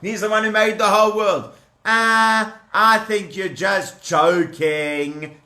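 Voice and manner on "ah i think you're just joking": slow scoffing Pharaoh; Pharaoh mocking. Pharaoh brushing off Moses, slow and scoffing. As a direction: drawl it out, dismissive. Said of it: "That's what Paro said".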